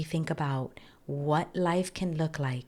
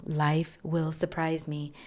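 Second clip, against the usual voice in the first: slow mantra; slower than usual. Shown as a demonstration. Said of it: "I am not in control".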